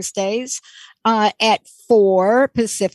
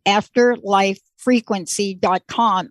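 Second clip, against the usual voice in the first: afterlife frequency dot com said slowly, word by word; slow emphatic web address; slower than usual. Shown as a demonstration. Host repeating the website for listeners, slow and deliberate. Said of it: "Everybody listen".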